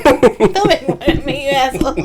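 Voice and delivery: laughing protest. Real, not acted. Teased, protesting through laughter.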